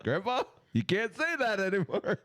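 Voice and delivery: put-on high, scolding young voice; lightly voiced scolding kid; young self voice. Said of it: "And I'm just like".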